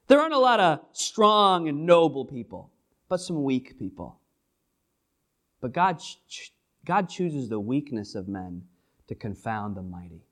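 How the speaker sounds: lightly voiced Paul chatting to the Corinthians; casual Paul. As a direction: talk to the church like old buddies. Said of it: "He's like".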